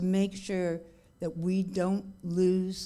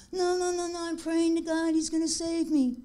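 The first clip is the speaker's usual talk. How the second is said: higher, insistent mock refusal; stubborn refusal; 11 semitones higher, 4 dB louder than usual. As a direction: wave off the rescuer stubbornly in a raised voice. Stubborn man refuses the rescue.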